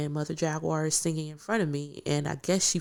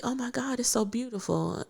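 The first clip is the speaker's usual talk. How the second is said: soft, higher-pitched wonder; retold hushed awe; 6 semitones higher, 6 dB quieter than usual. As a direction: quietly marvel at something beautiful.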